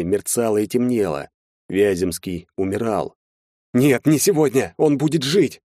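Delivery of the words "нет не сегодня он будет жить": raised, higher defiant order; forceful refusal; commanding. A narrator's reading. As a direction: order Death away. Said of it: "приказал я смерти".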